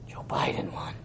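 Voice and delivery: gasped, whispered mock horror; gasp, then whisper it like a disaster; hammed-up horrified whisper. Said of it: "mocking panicked believers".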